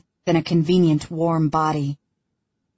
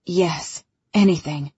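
dragged out against his will; forced, falling, strained answer; wrenched out. Acted. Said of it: "sounds as if it's wrenched out of him".

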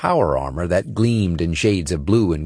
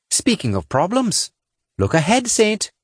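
raised, urgent warning voice; higher female character voice; 13 semitones higher than usual. A narrator's reading. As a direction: warn him of the danger ahead. Sinner warns Saint.

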